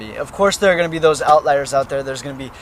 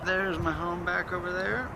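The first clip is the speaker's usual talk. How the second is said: ordinary talk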